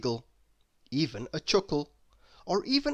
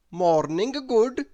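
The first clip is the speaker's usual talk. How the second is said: louder, higher, slow cheery greeting; cheerful Mister Topsy-Turvy; 6 semitones higher, 7 dB louder than usual. Acted. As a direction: greet them backwards brightly. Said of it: "he said cheerfully".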